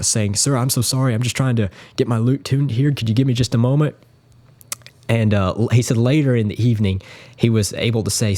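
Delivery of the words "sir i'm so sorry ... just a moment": lightly acted flustered apology; apologetic young Bream. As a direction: imitate a young musician pleading for a moment. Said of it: "Julian's just apologized to him".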